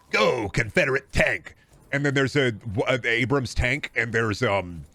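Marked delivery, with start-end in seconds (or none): 0.1-1.5 mock Batman. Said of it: "the Batman's like".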